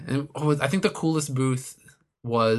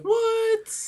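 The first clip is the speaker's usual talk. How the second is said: much higher startled question; surprised. Retold or imitated. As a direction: squeak it in disbelief. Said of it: "I was like".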